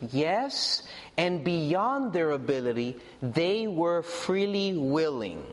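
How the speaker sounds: scripture reading. Acted. Reads scripture to congregation.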